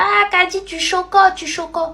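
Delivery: put-on high, sing-song teasing of the new girl; mocking classmates. Classmates tease the narrator about her accent, mocking high voice. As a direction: jeer at her like kids in class. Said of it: "Ils étaient là".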